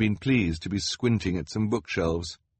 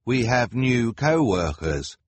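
Hugo calling; 4 semitones higher, 4 dB louder than usual. A narrator's reading. Hugo wakes Kevin.

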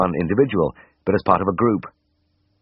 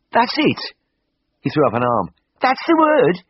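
excited shout; 12 semitones higher than usual. A narrator's reading. Patient cheers when the vet names his condition, excited Brummie shout. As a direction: throw your arm up and yell it.

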